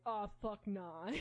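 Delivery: slow mock-horrified refusal; dog's flat refusal. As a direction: stretch it out as an appalled no. Voicing dog's disgusted refusal.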